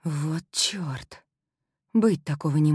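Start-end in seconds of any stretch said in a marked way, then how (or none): 0.0-1.2 breathless whispered swear under the breath; whispered curse. Acted. Heroine whispers a curse on hearing Ethan's name, whispered. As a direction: whisper it to yourself, dismayed.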